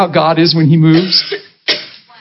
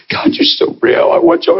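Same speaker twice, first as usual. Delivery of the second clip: high, breathless cry to God; half-whispered, high-pitched awe; fervent prayer. Retold or imitated. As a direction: pour it out like a rapt prayer. Retold fervent morning prayer.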